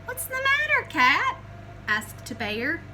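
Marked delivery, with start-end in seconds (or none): 0.1-1.4 curious question. Acted. Bear asks.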